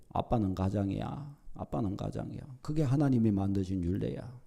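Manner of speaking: low, soft, settled motherly reply; quietly uphold the father's authority; mother's calm backing. Retold or imitated. Mother answers pouting children about their father, low and calm.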